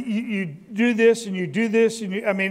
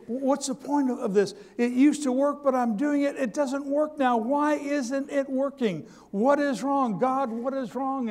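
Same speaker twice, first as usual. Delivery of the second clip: raised, pleading voice asking God why; frustrated complaint; 4 semitones higher than usual. Acted. Believer complaining to God, frustrated and pleading. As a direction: cry out in weary frustration, slowing on the question.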